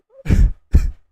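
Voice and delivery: loud voiceless sobbing bursts; real crying without words; tearful outburst. Real, not acted. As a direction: break down in loud, breathy sobs. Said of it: "Make me cry and shit".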